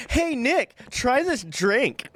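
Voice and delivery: lightly voiced teasing friend offering a drink; mischievous friend. Friend Angela pranking Nick, lightly voiced sly offer.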